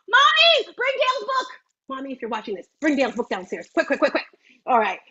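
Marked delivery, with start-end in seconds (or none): 0.1-1.5 calling out. Real, not acted. Daughter hollering for mom to bring the book, calling out. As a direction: call up the house to mom, pitched high.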